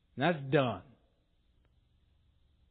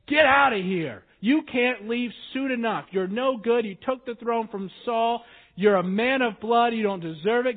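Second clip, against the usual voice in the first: loud retold jeering, higher and louder; cursing old man; 4 semitones higher, 6 dB louder than usual. Old man jeering at David while throwing rocks, loud angry mock. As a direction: rail at him as he passes. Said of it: "He's cursing, he's throwing rocks".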